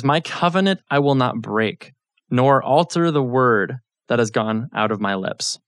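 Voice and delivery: slow, solemn reading of God's words; measured scripture recital. Shown as a demonstration. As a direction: read the verse slowly with weight. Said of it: "This is God speaking. He says".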